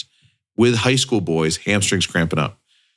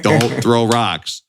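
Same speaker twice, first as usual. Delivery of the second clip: mock calling out; 3 semitones higher, slower than usual. Teacher calling to boys.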